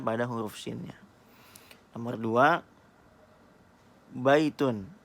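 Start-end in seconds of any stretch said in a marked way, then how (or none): 4.1-4.9 baitun said out louder, each sound clear; louder dictation. Shown as a demonstration. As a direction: call out baitun for the class to hear. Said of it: "Apa yang kalian dengar". (ucapkan baitun lebih keras dan jelas)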